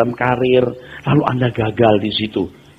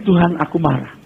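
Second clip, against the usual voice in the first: sincere honest prayer. Shown as a demonstration. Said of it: "lebih baik tulus gini".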